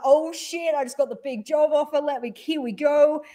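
high, disbelieving excitement; giddy at the big offer; mock-stunned thrill; excited. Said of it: "I'm like".

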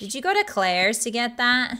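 put-on drawling Valley Girl agreement. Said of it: "five minutes of Valley Girl".

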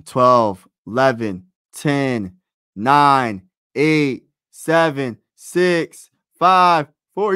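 loud, punchy count of the last seconds; shouted countdown. Real, not acted. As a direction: bark each number as the clock runs.

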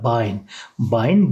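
"bein" said BAYN. Shown as a demonstration. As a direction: model "bein" with an ay glide. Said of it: "bein şeklinde okunuyor".

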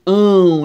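"Ão" voiced loud with the mouth wide open; open nasal demo. Shown as a demonstration. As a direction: hold "Ão" open and nasal for the class. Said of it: "a gente fica com a boca bem a".

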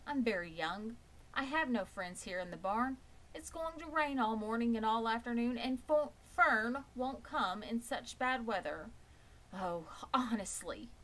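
a friendless piglet feeling sorry for himself; lonely young pig. Acted. Wilbur the pig laments alone in the barn, high and sad.

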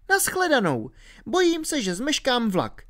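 hurried goodbye, very high voice; blurting out. A narrator's reading. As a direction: blurt it out high, anxious to get away. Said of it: "vyhrkla Alenka". (vyhrknout vysokým dívčím hlasem)

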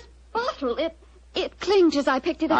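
startled, half laughing as the bottle clinks; excited discovery. Acted. Lady Anne startled by the clinking bottle, excited. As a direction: voice jumps high with a breathless laugh.

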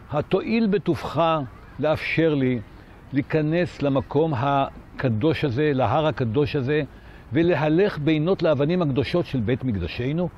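mildly voiced courteous, formal request; famously polite. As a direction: lightly imitate an elder statesman's politeness. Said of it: "בנימת הנימוס המפורסמת שלו".

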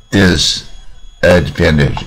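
disadvantage in slow parts, a pause after "dis"; split into syllables. Shown as a demonstration. Teacher explaining English syllables, disadvantage slowly broken apart. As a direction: sound out disadvantage slowly, piece by piece. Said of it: "所以英文叫音节字啊".

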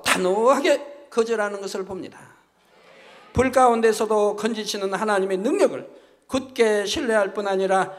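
ordinary delivery

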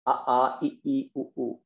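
a, i, u each sounded out twice; letter sounds demo. Shown as a demonstration. Teacher showing students the Sanskrit vowels, sounded out. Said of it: "that's the way to pronounce these letters".

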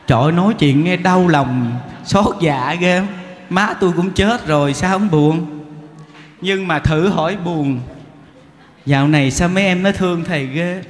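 ordinary talk, nothing marked

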